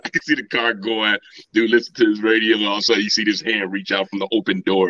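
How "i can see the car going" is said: ordinary talk, nothing marked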